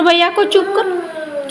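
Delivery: slow, soft coaxing. Real, not acted. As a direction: coax her kindly, slowly. Mother coaxing daughter to hush brother.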